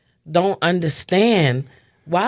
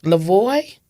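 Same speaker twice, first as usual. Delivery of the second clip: retold screaming; 5 semitones higher, 3 dB louder than usual. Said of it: "I'm screaming".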